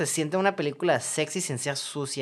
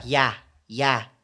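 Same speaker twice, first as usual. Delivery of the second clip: lightly imitated German-accented ya, ya; a touch of fake German accent; mock German accent; 3 semitones lower than usual. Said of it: "de la nada escuchaba".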